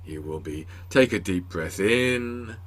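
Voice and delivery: soft, hushed guided-breathing voice, slow at the end; imitating soothing instructor. Guest mimics his therapy breathing tape, hushed and soothing. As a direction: mimic the calm tape telling you to breathe. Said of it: "a recording with somebody saying".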